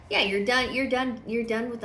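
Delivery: emphatic. Real, not acted. Emphatic card reading.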